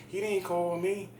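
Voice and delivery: high-pitched indignant protest; mock her exasperated complaint; imitating pissed-off woman. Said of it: "she was pissed as a motherfucker".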